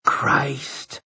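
hushed, drawn-out oath; whispered. A narrator's reading. Eddie reacts to who got out of the car, whispering. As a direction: let it out slowly under the breath. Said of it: "Eddie whispered".

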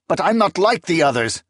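insist, hurt and urgent; protesting. Acted. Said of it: "Akamian had protested".

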